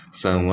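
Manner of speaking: sawa stopped with a long slow vowel; slow, drawn sawa at the stop; mad al-iwad stop. Shown as a demonstration. Teacher showing the stop on sawa. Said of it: "So we say".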